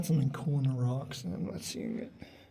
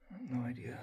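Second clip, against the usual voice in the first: whispering; 2 semitones lower, 6 dB quieter, faster than usual. Real, not acted. Quiet answer inside dark cave.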